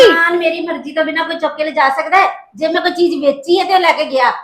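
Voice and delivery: loud indignant argument; mother-in-law arguing back at the daughter-in-law, loud. Acted. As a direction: slam her complaint down.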